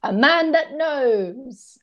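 slow, approving drawl. Retold or imitated. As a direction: nod along, a knowing approval. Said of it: "I was like".

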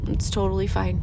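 low, gentle reassurance to yourself; calm self-talk. Shown as a demonstration. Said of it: "Yeah, talk to yourself".

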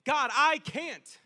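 loud, drawn-out plea; crying out. Acted. Believer admits helplessness to God, crying out. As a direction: call up to God, stretching the words. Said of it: "God answers us with that statement".

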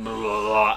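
drawn-out slow-mo face noise; slow-motion wobble. Retold or imitated. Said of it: "slow-mo of Gordon's face is going like".

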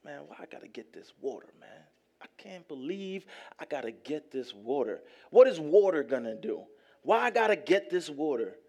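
mock-sulky servant muttering complaints; moping servants. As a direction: sulk like a servant stuck hauling water. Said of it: "can you imagine they're moping".

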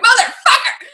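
very high squealed curse through laughter; laughing, hammed-up outburst of exasperation; mock frustration. Acting out frustrated reaction, laughing.

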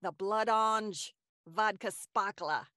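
put-on slow Boston accent drink name; Boston accent, slowly savoring the drink name. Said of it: "Said with, uh, a Boston accent".

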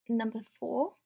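breathless, winded delivery; out of breath. Real, not acted. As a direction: speak while out of breath. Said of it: "I'm out of breath again".

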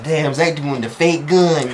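slow, drawn-out disbelief; imitating a friend's slow reaction; amazed bystander. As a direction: stretch it out in awe. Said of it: "my friend, M, she like".

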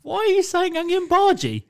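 high, laughing question. Real, not acted. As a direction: giggle while asking. Laughing at the mishearing.

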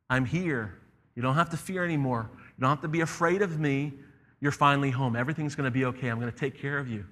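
gentle, softening reassurance; calm the frightened child, easing downward; reassuring lion. Acted. The lion comforts the frightened boy, reassuring.

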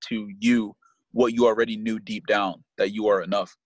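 measured, earnest read-aloud; steady inspirational quote reading. Real, not acted.

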